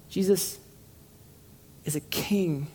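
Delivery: preacher lets it sink in softly; soft, slow emphasis. Shown as a demonstration. Preacher repeats the truth to the congregation, softly. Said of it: "Let that sit".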